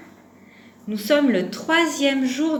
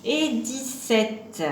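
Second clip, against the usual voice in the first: counting out; 3 semitones higher, much slower than usual. Shown as a demonstration. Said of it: "on va compter jusqu'à dix-sept".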